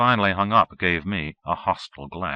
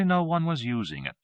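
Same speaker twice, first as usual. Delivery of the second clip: surprised; 10 semitones higher than usual. A narrator's reading. Narrator's wry surprise.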